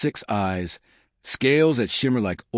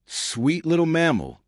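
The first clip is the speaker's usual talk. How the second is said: cooing; 7 semitones higher, slower than usual. A narrator's reading. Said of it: "she cooed".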